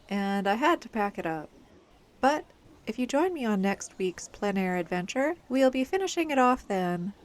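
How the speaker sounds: muffled, tinny noise-canceling mic sound; tin can phone. Real, not acted. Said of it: "Sorry I sound a bit like I'm talking into a tin can".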